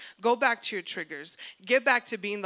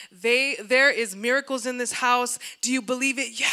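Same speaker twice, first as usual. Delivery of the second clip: hyped preacher; 6 dB louder than usual. Pretend. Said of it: "I wanna come into church and be like".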